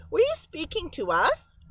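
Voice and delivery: a curious beaver, mildly; lightly voiced beaver. Beaver answers the mice.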